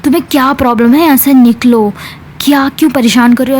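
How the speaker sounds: fast, irritated mock shout; retelling a friend snapping, a mild fast mock yell. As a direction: rattle it off like a half-hearted yell. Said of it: "irritate होते चिल्लाने लगती है".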